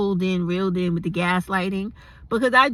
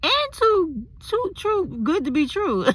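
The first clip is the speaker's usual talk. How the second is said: lovestruck gushing; 7 semitones higher than usual. Retold or imitated. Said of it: "I was like".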